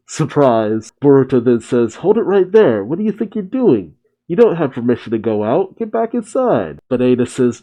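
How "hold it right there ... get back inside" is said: sharp, high-pitched commands, pitch jumping up; stern order. Acted. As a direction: stop her in her tracks, pitch climbing. Boruto orders Ada to stop.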